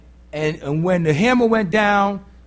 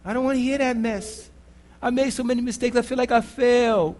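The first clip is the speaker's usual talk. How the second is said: softer, dismissive, amused; God brushing it off; 3 semitones higher, 4 dB quieter than usual. Retold or imitated. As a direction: wave away the self-pity. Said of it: "God's like".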